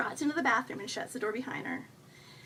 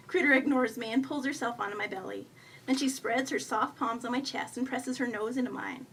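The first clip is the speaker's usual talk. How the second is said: usual speaking voice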